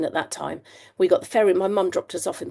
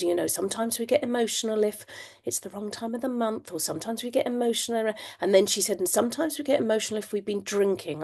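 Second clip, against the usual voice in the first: gentle teacher voice; 3 semitones higher, 4 dB quieter than usual. Retold or imitated. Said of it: "She just sort of said".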